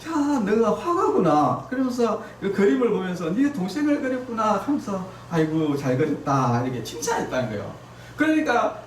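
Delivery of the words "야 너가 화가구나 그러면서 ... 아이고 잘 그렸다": praising mother. Retold or imitated. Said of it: "어머니가 이렇게 얘기해요".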